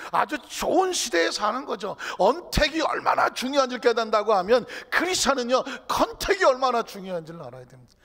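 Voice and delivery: loud, high, insistent sermon delivery; full-force preaching. Real, not acted. Preacher insisting on the importance of contact, full-force preaching. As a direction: hammer the point home to the congregation.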